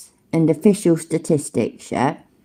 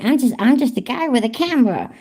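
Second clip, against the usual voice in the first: mocking quote; 6 semitones higher, faster than usual. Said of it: "Him saying".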